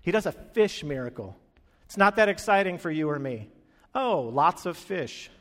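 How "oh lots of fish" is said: drawn-out, unimpressed 'ooh'; slow, underwhelmed mock wonder; mock enthusiasm. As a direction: feign being impressed, slowly. Mock thrill at fish.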